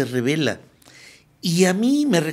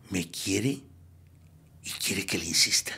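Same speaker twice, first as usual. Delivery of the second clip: hushed inner voice; 9 semitones lower, 9 dB quieter than usual. Retold or imitated. Inner voice of the alcoholic.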